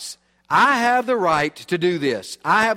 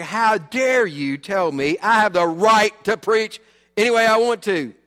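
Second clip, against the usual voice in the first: indignant; 4 dB louder than usual. Retold or imitated. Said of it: "I was so mad".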